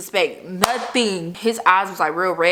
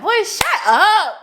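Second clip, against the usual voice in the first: mock exasperation; 12 semitones higher, 4 dB louder, slower than usual. Snapping at the scared friend.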